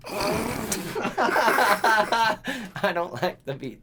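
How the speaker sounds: drawn-out quote starting high in laughter; laughing movie quote. Retold or imitated. Re-quoting the asshole boyfriend's line, laughing mimicry. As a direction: crack up, then stretch out the line.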